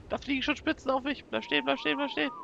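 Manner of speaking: high-pitched urgent plea, climbing at the end; panicked pleading. Real, not acted. Player under attack begs the dragon to stay, panicked pleading. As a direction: plead in alarm, voice shooting up.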